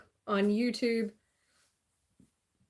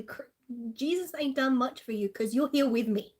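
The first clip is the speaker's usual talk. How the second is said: retold comeback; 4 semitones higher, 4 dB louder than usual. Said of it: "I'm like".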